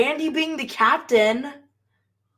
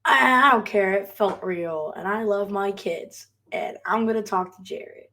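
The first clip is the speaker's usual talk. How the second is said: imitating the captain; 4 semitones lower than usual. Fan quoting the captain at the episode's end, low and subdued. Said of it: "whenever he's like".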